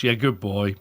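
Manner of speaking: put-on flat "good boy" with no lift; deadpan praise. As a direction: praise sounding just like a telling off. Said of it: "with the same tone of voice".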